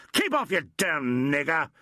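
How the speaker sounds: a mild acted scream of fright. A narrator's reading. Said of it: "he screamed".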